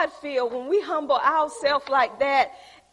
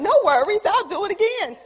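mocking repetition; 7 semitones higher, 6 dB louder than usual. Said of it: "You're repeating them".

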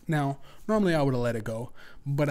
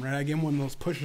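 ordinary delivery

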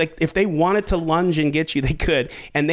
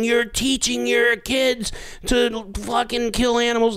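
retold scream; 6 semitones higher than usual. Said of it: "they're screaming".

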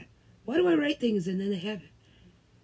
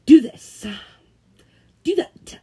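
louder, higher barked orders; mock boss; 6 semitones higher, 13 dB louder than usual. Mocking the manager giving orders, barked. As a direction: bark like a pompous manager. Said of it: "he's like".

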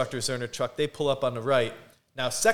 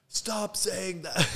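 retold scolding; 7 semitones higher, 4 dB quieter, much slower than usual. Instructors telling a trainee off, mock scolding. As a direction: imitate exasperated instructors telling him off. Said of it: "yelling at me".

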